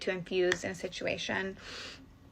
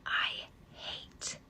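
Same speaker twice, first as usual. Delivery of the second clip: intimate, secretive whisper; flirty whisper; 11 dB quieter than usual. Shown as a demonstration. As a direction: whisper it with playful pauses. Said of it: "in a flirty way".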